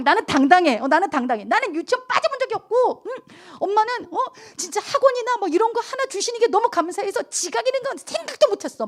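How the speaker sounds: high, smug lecturing mom; self-righteous mother. Retold or imitated. Pastor replaying her smug lecture to her daughter, high.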